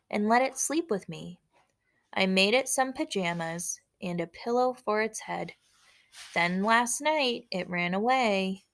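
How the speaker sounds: measured, lilting poem read-aloud; poem recited with a pause after each line. Acted. Reads the poem again.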